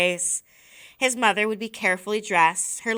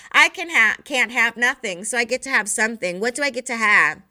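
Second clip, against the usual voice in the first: 1 gloating; 3 semitones higher, 5 dB louder than usual. Acted. Boy gloating over logic trick.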